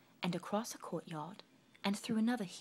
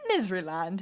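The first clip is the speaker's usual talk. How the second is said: puzzled echo; 9 dB louder than usual. Acted. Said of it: "he said".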